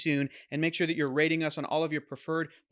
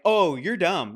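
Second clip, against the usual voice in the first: mock contempt, a bit louder; dismissive; 5 dB louder, slower than usual. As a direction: sneer it out. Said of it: "to like".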